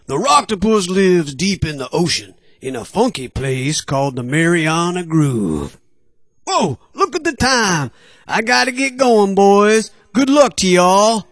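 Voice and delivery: upbeat cartoon fish character; cheerful, hurried sea pal; friendly sea creature voice.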